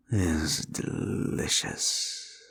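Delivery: slow, breathy whisper of relish; a slow whisper savoring the suffering. Acted. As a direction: whisper it like tasting something sweet. Demon savoring the mortal's suffering.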